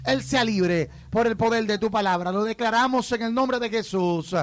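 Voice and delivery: firm, steady declaring prayer; prayer declaration. Real, not acted. Pastor declaring healing over a man, firm prayer. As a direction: pray with authority, phrase by phrase.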